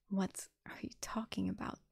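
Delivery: weak, breath-only whisper; low, barely audible. A narrator's reading. Wounded Nefis questioning Sunny, barely audible. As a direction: barely get the words out, very softly. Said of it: "said in a low, barely audible voice".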